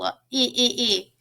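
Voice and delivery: "I" said as a short "ih", three times over; short i sound. Shown as a demonstration. Teacher isolating a vowel for children, "I" pronounced ih. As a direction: repeat "I" as separate short ih sounds. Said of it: "Do you hear that I sound".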